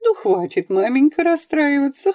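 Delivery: a touch of mother's vexation; annoyed. A narrator's reading. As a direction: hush her with irritation. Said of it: "сказав с досадой".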